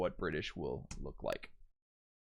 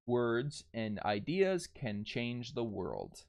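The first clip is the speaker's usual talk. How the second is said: slow read-out; much slower than usual. Shown as a demonstration. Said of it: "I use that weird L".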